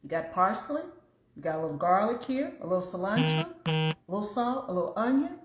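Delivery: thinking it through, each item rising; retold musing. Retelling to viewers how she planned her quiche, musing aloud. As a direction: reenact working out an idea, lilting up on each ingredient. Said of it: "Then I thought".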